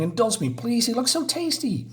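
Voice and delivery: high wheedling plea; a hungry creature pleading. Acted. Creature begging for food.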